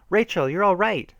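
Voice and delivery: high, relieved cry of joy; joyful shout. A narrator's reading. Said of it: "Shannon shouted in joy".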